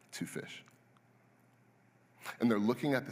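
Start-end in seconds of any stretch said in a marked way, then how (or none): 0.1-0.6 breathy, almost whispered; sheepish near whisper. Retold or imitated. Disciples admitting to Jesus how little food, near whisper. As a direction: trail off, embarrassed. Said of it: "Hey, Jesus, this".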